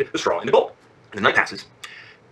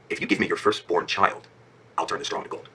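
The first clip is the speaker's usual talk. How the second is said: scheming imp; 6 semitones lower, 6 dB quieter than usual. Acted. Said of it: "And the imp says".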